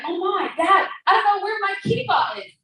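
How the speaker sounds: a hint of a fretting child; whiny little boy. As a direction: whine it like a kid who lost his kippah. Little boy whining to father.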